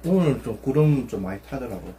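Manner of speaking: talking while chewing; muffled through food; mouth full. Real, not acted. Seen 2: Took food at -3.0; cheeks full, chewing through labelled words.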